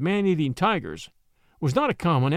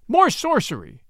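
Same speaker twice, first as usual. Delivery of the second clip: high, louder storybook cry; villagers' shout; 9 semitones higher, 5 dB louder than usual. A narrator's reading. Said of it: "shouted the villagers".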